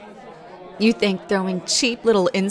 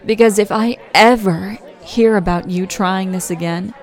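firm threat. Acted. Threatening the bully.

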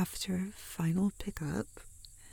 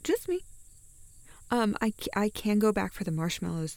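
nervous excuse; 6 dB louder than usual. Acted. Making excuses on walkie-talkie.

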